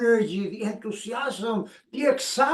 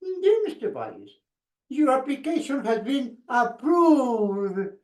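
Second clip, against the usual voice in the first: much higher, earnest letter read; the speaker reading the real letter; 4 semitones higher than usual. Retold or imitated. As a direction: read out the real news in a high voice. Wife really reads approval letter.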